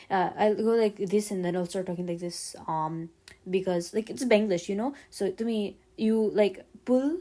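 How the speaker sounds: Benglish accent demonstration; Bengali-English accent. Shown as a demonstration. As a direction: put Bengali pronunciation onto English words. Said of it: "I can do an Indian accent".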